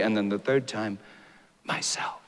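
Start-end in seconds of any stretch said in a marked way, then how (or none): 1.6-2.2 barely audible whisper of Myself; whispered softly. Acted. The lion answering Shasta a third time, whispered. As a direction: breathe the word Myself almost silently. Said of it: "whispered so softly".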